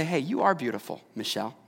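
soft, dropping low on the name; mildly acted, gentle aside to a loved one; tender compliment. Husband pausing to really see his wife, tender and soft.

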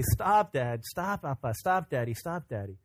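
put-on little girl protesting playfully. Daughter tells fake-crying dad to quit, playful imitated protest. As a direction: lightly imitate a child fighting a smile. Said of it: "fighting to try and stop a smile".

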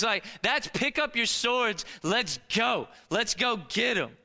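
rally them like a coach before a fight; excited battle pep talk; rallying cry. Acted. Spies urging people to fight.

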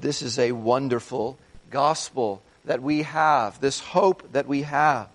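ordinary talk

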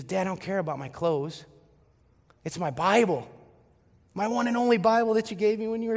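crying daughter. Retold or imitated. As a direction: build into a mock wail of protest. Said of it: "she's crying a little more".

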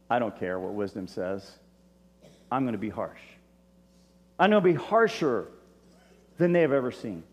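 king snubbing the people's plea; mock harsh king. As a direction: voice a stubborn king brushing off advice. King's harsh reply voiced.

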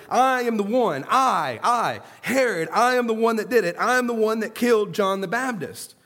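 guilty king hammering his confession home; Herod's mock shout. Preacher voicing Herod pounding and shouting, loud. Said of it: "He's shouting it".

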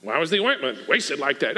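mildly acted indignant question; a touch of scolding disbelief. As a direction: lightly mimic an offended onlooker. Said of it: "said to themselves indignantly".

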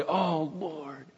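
soft sighed cry to God; hushed sigh of a repentant sinner; sighing "Oh, Lord". Retold or imitated. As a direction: breathe it out like a weary sigh. Sighing prayer in a sermon.

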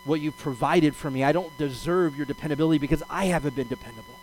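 subdued, humble confession to God; humble plea. Retold or imitated. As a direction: own up humbly before God. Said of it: "very humbly, and I think honestly humbly".

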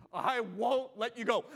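slow, drawn-out vow of desperation; desperate vow. Acted. Preacher voicing the church's desperate vow, slow. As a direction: say it like a man clinging on. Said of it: "a Jacob-like desperation".

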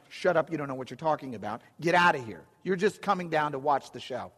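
fast, dismissive big-brother brush-off; annoyed brother. Retold or imitated. Embarrassed older brother telling David to go home, fast and dismissive. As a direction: snap it off quickly, embarrassed. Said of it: "his brother's going".

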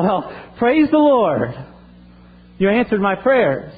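a mock shout of delight from an old lady; retold joyful scream. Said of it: "she screamed out".

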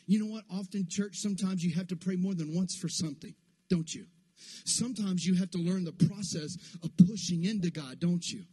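driving, insistent preacher rhythm; full-force preaching. Real, not acted. Preacher urging church to push into God, full-force preaching. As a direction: build momentum phrase on phrase, urging the church onward.

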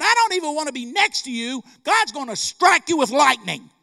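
high, loud, rising warning; acted alarmed outburst. Man in line backing away from the clerk, loud alarm.

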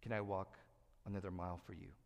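soft, humble thanks; a gently subdued servant's reply; meek and quiet. Retold or imitated. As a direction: say it meekly to the soldier. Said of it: "You take that bag and say".

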